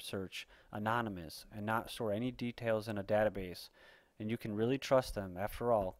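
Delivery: emphatic amateur news read; punched key words, measured reading delivery; article read-aloud. Acted. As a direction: read it out like an opinionated bulletin.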